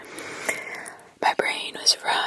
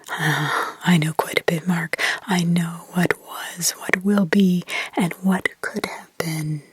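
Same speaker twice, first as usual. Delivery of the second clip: put-on demonic child; 5 semitones lower, 3 dB louder than usual. Possessed girl accusing Mark, lower demonic whisper. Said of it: "it was demonic in others".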